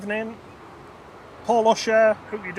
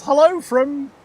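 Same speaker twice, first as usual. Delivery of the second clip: attempted French greeting; 10 semitones higher, 8 dB louder, slower than usual. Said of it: "how to say that in a French accent".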